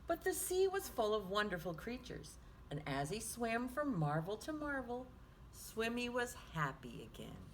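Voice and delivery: lively picture-book reading; reading to children. A narrator's reading. Teacher reading Swimmy aloud to children, lively storytime voice. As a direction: read it like storytime for little ones.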